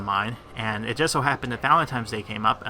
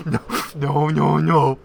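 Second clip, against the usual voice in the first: laughing through the refusals; 3 semitones higher, 5 dB louder, slower than usual. Real, not acted. Embarrassed vlogger refusing old skit, laughing. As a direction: wave it off, laughing.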